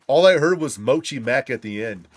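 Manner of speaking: loud, laughing disbelief at the end; excited shout. Real, not acted. Telling viewers what he heard, excited shout. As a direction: call it out loud and amazed.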